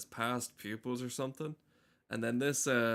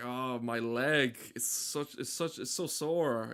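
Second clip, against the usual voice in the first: drawn-out, exaggerated, hammed-up pained voice. Retelling a man hobbling around a waiting room: imitating hammed-up pain complaints. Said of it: "really hamming up his performance".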